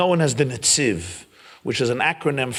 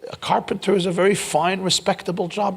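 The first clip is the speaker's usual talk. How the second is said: higher-pitched, insistent father; earnest persuading father; 9 semitones higher than usual. Retold or imitated. Father arguing for the carpenter's trade, earnest higher-pitched persuasion. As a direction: press the point in a higher voice.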